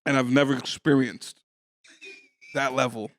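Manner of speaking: talking with a mouthful of candy; eating sour candy. Real, not acted. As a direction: chew candy while speaking. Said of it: "pop two sour candies, chewable candies, in your mouth right before you start a sentence".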